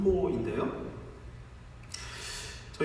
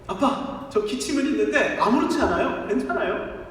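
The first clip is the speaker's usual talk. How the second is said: put-on cheerful child; 4 semitones higher than usual. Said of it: "씩씩한 모습으로".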